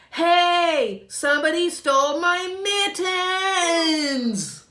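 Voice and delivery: very high, loud cry of alarm; child shrieking her mittens are gone; alarmed shout. Acted. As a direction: yell out the shocking discovery. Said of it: "discovering theft".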